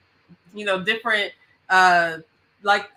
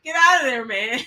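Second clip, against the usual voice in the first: raised, louder urgent warning; J-Dub impression; 3 semitones higher, 5 dB louder than usual. Quoting J-Dub on people skipping toward you, urgent mock warning. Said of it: "like J-Dub said".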